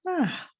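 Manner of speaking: high, falling "ah"; contented sigh. Retold or imitated. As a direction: let out a high sighed "ah". Shows her reaction to session.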